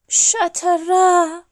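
drawn-out, high, loud splat; storyteller's imitated thud; crash sound effect. A narrator's reading. Narrator voices the bear's crash.

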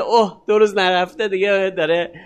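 lightly voiced sneering listener; a snide onlooker scoffing at his accent; a hint of a scornful critic; mocking critic. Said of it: "اینجوری میگه".

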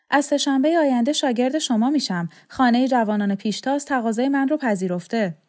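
a hint of a proud schoolgirl sharing news; eager young girl. A narrator's reading. Girl tells Laqa she will be her pupil, lightly voiced and eager.

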